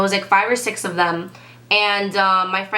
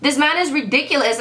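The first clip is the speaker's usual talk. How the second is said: high-pitched mock exasperation; acted indignation, voice raised in pitch; imitated pissed-off outburst; 6 semitones higher than usual. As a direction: retell her fuming, pitch jumping up. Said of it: "'cause she was pissed. She was like".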